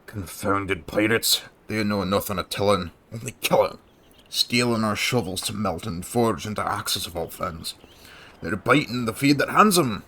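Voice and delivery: lightly voiced grumbling old farmer; gruff farmer NPC voice. Farmer grumbling to the hero about pirates, lightly gruff. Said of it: "the voice I did for you".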